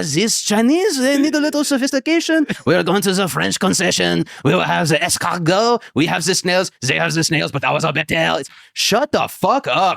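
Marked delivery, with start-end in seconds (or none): 0.0-8.4 mock snooty French person. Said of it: "They're like".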